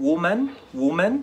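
woman with a "wu" first syllable; singular pronunciation. Shown as a demonstration. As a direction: say "woman" slowly, starting "wu". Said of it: "في المفرد تبقى wo". (انطق woman بـ"وُو" في الأول)

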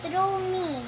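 memory verse called out loud; loud proud verse recital; loud recitation. Real, not acted. Children shouting memory verses.

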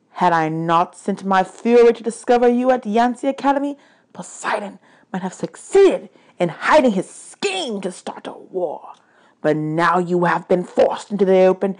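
lightly voiced vengeful god; accusing god of the dead.

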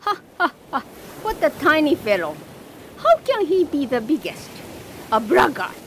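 mocking laugh, then a scoff; laughing shrimp. Shrimp laughing at the vanished stork. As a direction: laugh down at the tiny bird. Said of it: "laughed the shrimp".

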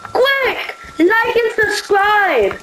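high, excited sales pitch, slowed at the end; mock hype plug. Youtuber hyping his own channel, mock excited plug. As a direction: shout it like a hammy promo, then slow down. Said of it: "I was just joking".

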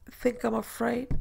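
indignant challenge; drawn-out defiant question; defiant, slow. A narrator's reading. Wife bristles at teasing.

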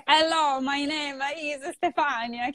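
put-on halting beginner English with an Italian accent, slowed down; mock Italian beginner's English, slowed and careful; broken English. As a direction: speak slowly like you barely know English. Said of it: "This was my accent when I first learned English".

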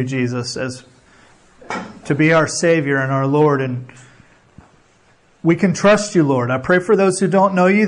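earnest, steady prayer voice; closing prayer. Acted. Pastor praying over the congregation, earnest prayer. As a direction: pray over them sincerely, unhurried.

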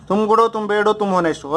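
"तुम गुड हो, तुम बैड हो" evenly patterned, "तुम honest हो" falling to close; rhythm drill. Shown as a demonstration. Teacher showing students a test for adjectives, rhythm drill. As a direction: recite in a rhythmic three-part pattern. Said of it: "adjective में एक rhythm बना लो".

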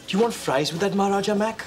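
mock cashier. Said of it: "let me start practicing for it".

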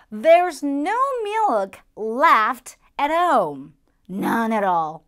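slow, exasperated grumble about the missing milk; exasperated complaint. Acted. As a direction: grumble that the fridge is empty. Acted complaint about empty fridge.

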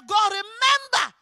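loud, drawn-out plea to God; insistent prayer. Acted. Preacher voicing a giver reminding God, loud insistent plea. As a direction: press the plea slowly and forcefully.

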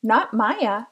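put-on a girl proudly correcting the boy in her class. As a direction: stand tall and say "Mirha" with the H. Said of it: "she told Hayden proudly".

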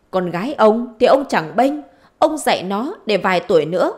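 acted indignant wife, rising in pitch; angry retort. Wife blaming husband's daughter, angry retort. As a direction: throw the blame back, voice climbing.

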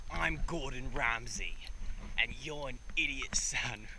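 a hint of the TV chef jeering at a cook; Gordon Ramsay impression. Joking in the ocean, a light Gordon Ramsay impression. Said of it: "doing a Gordon Ramsay impression".

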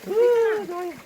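high squeal of pleasure in hot water; sinking into hot bath. Real, not acted. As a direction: shudder with delight in the heat.

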